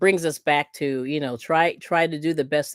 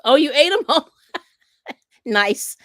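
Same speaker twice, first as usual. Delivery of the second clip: kind gentle laugh; 10 semitones higher, 6 dB louder than usual. Real, not acted. Laughing at viewer comment.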